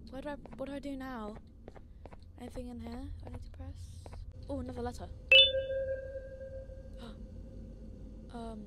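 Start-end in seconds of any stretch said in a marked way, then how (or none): 5.1-8.3 startled gasp. Real, not acted. Startled in the game.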